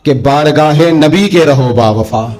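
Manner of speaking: slow, measured recital of a devotional couplet; slow verse recital. Retold or imitated. Preacher reciting a devotional verse to listeners, slow recital. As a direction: draw out each word like a chanted call. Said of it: "صبح و شام ایک اذان پڑھتے ہیں".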